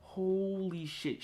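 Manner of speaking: slow, soft, drawn-out swearing; stunned awe. Real, not acted. Fan reliving Aunt May's death scene, stunned. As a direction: let it out slowly and under-voiced, overwhelmed.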